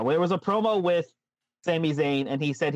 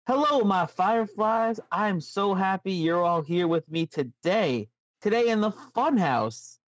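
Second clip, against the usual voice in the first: slow, slightly Southern storyteller voice; a light Southern drawl for the Funhouse host, slow; weirdly Southern Bray; 5 semitones higher than usual. Acted. Host greeting his Fireflies in a light Southern drawl. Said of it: "you went a little, like, weirdly Southern".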